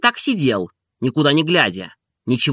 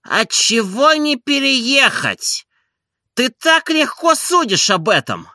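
much higher, emphatic scolding questions; indignant master; 10 semitones higher than usual. A narrator's reading. Oblomov scolding Zakhar, much higher. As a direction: hammer each question at him.

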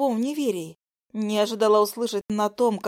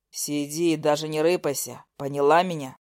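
stern man; 6 semitones lower than usual. Acted. Nikita orders her.

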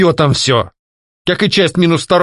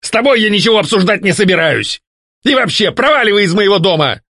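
much higher, resentful blurt; indignant outburst; 11 semitones higher than usual. A narrator's reading. Ghost telling the duke to get out, indignant and higher. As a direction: snap at the rival. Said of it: "недовольно выпалил Альфред".

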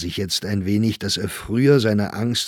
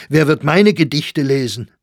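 loud, high desperate question; exclaimed in panic; anxious outcry; 6 semitones higher, 8 dB louder than usual. A narrator's reading. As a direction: demand it at full agitation. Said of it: "rief Sachsberger aus".

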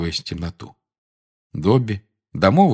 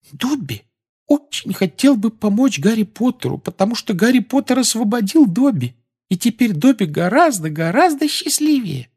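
very high elf voice, full of feeling; earnest grateful little elf; heartfelt squeaky elf; 4 dB louder than usual. Acted. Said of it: "сказал с чувством".

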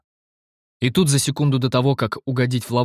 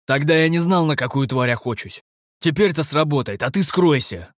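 higher, scornful, bold; mocking sardonic mercenary; 4 semitones higher than usual. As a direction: jeer at him with relish. Stef taunts, higher voice.

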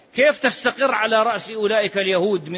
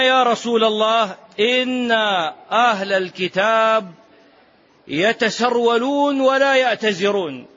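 raised questioning voice; 3 semitones higher than usual. Acted.

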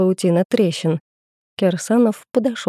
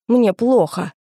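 higher-pitched, strained croak of pain; hoarse croak; 4 semitones higher, slower than usual. A narrator's reading. Injured bandit tells them he feels bad, croaking. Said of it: "прохрипел мужик".

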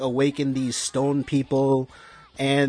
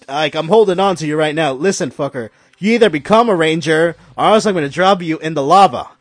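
threatening shout; 6 dB louder than usual. Retold or imitated. Red Ranger threatens over lava.

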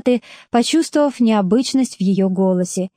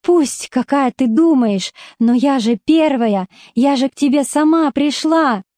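tearful; 4 semitones higher than usual. Acted. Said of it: "произнесла сквозь слёзы".

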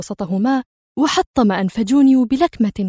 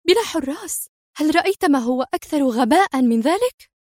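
higher, fast, outraged disbelief; indignant exclaiming; 4 semitones higher than usual. Acted. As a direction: throw his words back at him, furious. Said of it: "لوحت بذراعيها في حنق وهي تهتف".

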